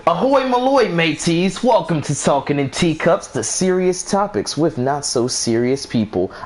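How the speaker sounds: put-on slow show intro in a shaky-at-best British accent; attempted British accent. Host opens the show for listeners, attempted British accent. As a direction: have a go at a British host's welcome. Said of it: "I was trying to do a British accent".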